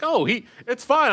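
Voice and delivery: high, loud breezy brush-off; mimicking dismissal. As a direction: toss it off in a high voice. Imitating DM dismissing.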